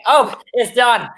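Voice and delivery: high, drawn-out exclamation; imitating a friend's thrilled verdict; excited certainty. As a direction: slowly declare victory for a friend. Voicing Barbara who lost it.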